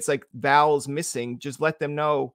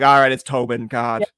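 exasperated; 8 dB louder than usual. Retold or imitated. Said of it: "I'd be like".

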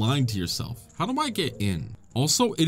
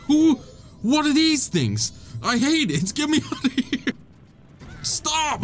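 high, frantic shrieks with a laugh in them; panicked squeal; 14 semitones higher than usual. Real, not acted. Gamer shrieking at creepy monsters in the cave, high panicked squeals. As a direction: squeal like the creatures are too close.

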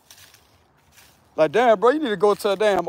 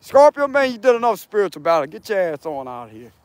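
judgment card. Acted. The card tells Scorpio to get out, lightly acted scolding. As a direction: order him out like the judgment card. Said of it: "that'll be like the judgment card".

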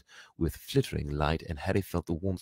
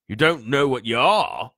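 loud, raised, falling at the end; incredulous giant; 6 semitones higher, 9 dB louder than usual. A narrator's reading. Giant stares bewildered at the boy, incredulous. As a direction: say it in amazed disbelief. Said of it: "he said finally".

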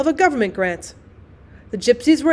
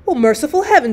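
a lightly voiced frightened cry, a touch louder; mock scream; 4 semitones higher, 4 dB louder than usual. Constance cries out as the child is seized, in a mild mock scream. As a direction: cry out to heaven in mild alarm. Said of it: "screamed Constance".

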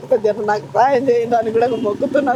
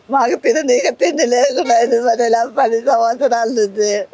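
words broken by real sobs; crying. Real, not acted. Jobless mother telling the chief minister they go hungry, sobbing. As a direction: let the tears break through.

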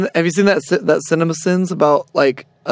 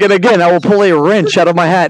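lightly voiced stage magician, a bit louder; magician's patter; 2 semitones higher, 5 dB louder than usual. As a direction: announce it like a hammy magician. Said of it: "He's like".

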